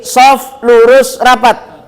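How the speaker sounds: slow and clear. Shown as a demonstration. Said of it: "Masa iya nggak ngerti?".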